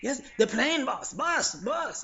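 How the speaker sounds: nod along meekly to the boss; submissive yes-man. Retold or imitated. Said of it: "and they just".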